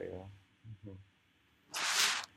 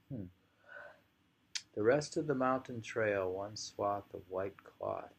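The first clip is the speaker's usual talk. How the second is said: poem reading; 3 dB louder, slower than usual. Acted. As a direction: read the haiku slowly, savouring each image.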